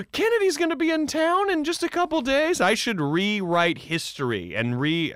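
high, loud, excited mock character voice; mock villain scheming. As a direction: ham up the scheming hero's discovery, gasping.

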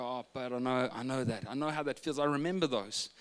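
softly sympathetic father; soothing dad. Retold or imitated. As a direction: gently reassure an aching child. Father comforting his crying son.

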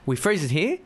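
flat, mechanical commentator voice; robot voice. Retold or imitated. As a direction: read it out like a machine. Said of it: "why the fuck are you talking like a robot".

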